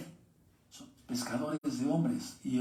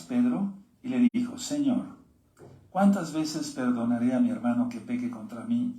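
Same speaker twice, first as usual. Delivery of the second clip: steady, earnest Bible reading to the congregation; preacher reading the parable to his listeners, earnest; scripture reading. Acted. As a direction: read the verses out clearly, like a preacher. Reads scripture passage aloud.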